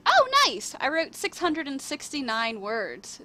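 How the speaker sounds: high, loud happy surprise; delighted little yelp; pleasantly surprised. Real, not acted. Pleased by her word count.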